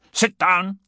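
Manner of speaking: loud, high-pitched cry; infinite alarm. A narrator's reading. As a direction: shout an urgent warning in panic. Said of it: "Gibbon's voice in infinite alarm".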